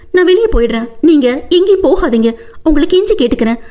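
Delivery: high, pleading woman; wife blocking the door, pleading high; begging wife. Acted. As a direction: implore him to stay.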